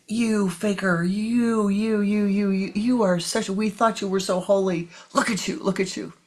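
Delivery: jeering crowd. Acted. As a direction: sputter with outrage. Villagers jeer at monk.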